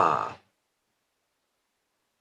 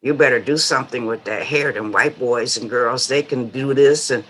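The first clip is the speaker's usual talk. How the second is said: imitated scolding mother; faster than usual. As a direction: rattle off a mild motherly warning, a bit under your usual level. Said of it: "what mothers back then would say to you".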